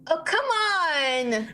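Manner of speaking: slow groan then loud snap; fed-up and annoyed; irritated. Acted. Woken from bed by door.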